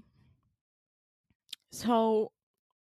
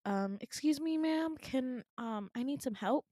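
acted hesitant, courteous question; polite request; 3 semitones higher than usual. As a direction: ask meekly for help, pitched up. Timidly asking receptionist for help.

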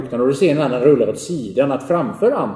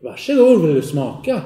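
eager offer; 2 semitones higher, 4 dB louder than usual. Acted. Boy offers the stone.

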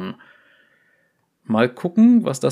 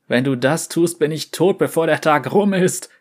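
slightly louder, rising plea; pleading; 3 semitones higher, 3 dB louder than usual. Acted. Devaki pleads with Vai, a touch of fear. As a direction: beg her not to expose you. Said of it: "flehte Devaki".

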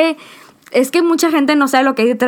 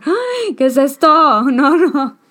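tearful; 4 semitones higher, slower than usual. Real, not acted. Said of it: "Voy a llorar".

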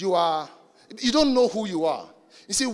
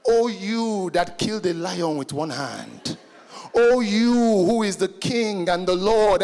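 mock flattery; slower than usual. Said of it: "He says".

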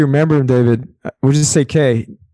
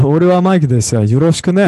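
put-on overdone native-style Japanese accent; heavily Japanese intonation; really Japanese accent; 4 semitones higher, 3 dB louder, faster than usual. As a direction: imitate an over-keen learner's very Japanese delivery. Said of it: "like, really Japanese".

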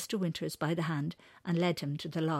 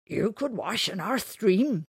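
slow, loud and higher kindly offer; 5 semitones higher, 8 dB louder, slower than usual. Acted. Mister Wiscockley offers the big man their stream, kindly. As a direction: offer it kindly, drawing the words out. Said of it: "said Mister Wiscockley kindly".

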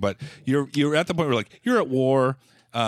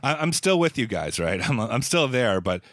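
mock isis recruit. Mock jihadist complaining to isis.

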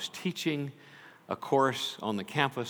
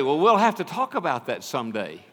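offhand brush-off; 4 semitones higher, 5 dB louder than usual. Retold or imitated. Brushing off a student casually.

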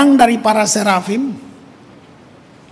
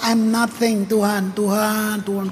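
awed murmur; 5 dB quieter than usual. Retold or imitated. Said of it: "kita langsung rasa".

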